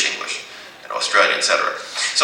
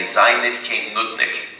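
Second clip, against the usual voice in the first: slow careful; 4 semitones higher, slower than usual. Shown as a demonstration. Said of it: "you can say".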